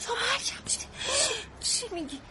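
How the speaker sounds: shocked whisper. Acted. Shocked reaction to arrest news.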